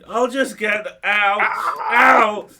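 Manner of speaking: put-on high, loud, whiny teenage voice; squeaky teen voice. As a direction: squeal it like a panicky fast food kid. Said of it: "I sound like this unholy combination".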